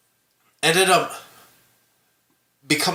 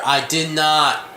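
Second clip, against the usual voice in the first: mock movie line; slower than usual. Quoting The Room line.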